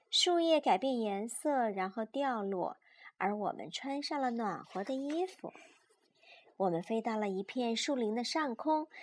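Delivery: put-on lively, measured read-aloud for small children; children's story narration. A narrator's reading. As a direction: read a picture book to a child.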